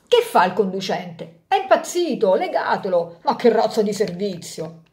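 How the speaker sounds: lively storyteller voice for a fable; story narration. A narrator's reading. Narrator telling a fable to parents, storytelling. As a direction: read it like a bedtime tale for grown-ups. Reads Rodari fable aloud.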